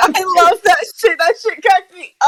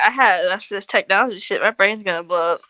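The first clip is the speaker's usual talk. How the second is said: Leon's voice; 7 semitones lower, 6 dB quieter, much faster than usual. Acted. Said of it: "Leon's like".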